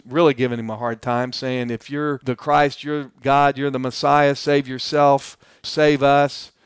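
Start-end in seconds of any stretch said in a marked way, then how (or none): 1.7-6.5 lightly acted taunt, pushed a little louder; mocking. Criminal taunting Jesus on the cross, mildly mocking. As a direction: imitate a heckler's jeering demands. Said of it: "He's mocking him is what he's doing".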